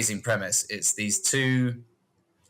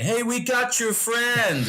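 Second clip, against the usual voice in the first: friendly hick call; 13 semitones higher, 3 dB louder, slower than usual. Retold or imitated. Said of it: "And Alan Tudyk's going".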